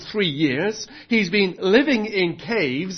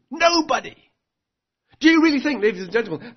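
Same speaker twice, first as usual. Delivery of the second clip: a preacher speaking as a cynical king; voicing Ahab; 5 semitones higher than usual. Preacher voicing Ahab's worldview.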